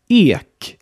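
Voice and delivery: Ek with a long, closed E as in Beet. Shown as a demonstration. Teacher models Ek for learners to repeat, long closed E. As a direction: say Ek in Swedish, stretching the closed E. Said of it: "das lange geschlossene E".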